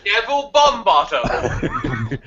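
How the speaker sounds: slow, high put-on English accent; hammed-up English accent for a silly wizard name; mock English accent. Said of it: "He's trying to do an accent".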